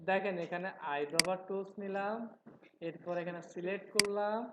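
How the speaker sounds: slow, careful explaining for students. Shown as a demonstration. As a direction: spell it out slowly so they follow. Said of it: "আস্তে আস্তে কথা বলবো". (ধীরে ধীরে বুঝিয়ে বলা)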